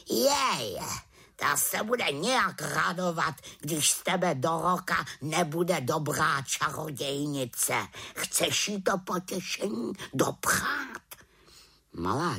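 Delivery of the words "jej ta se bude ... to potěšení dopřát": high, pointed raven question. Acted. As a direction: needle her about the aunt. Raven lectures the witch. (havran ji popichuje)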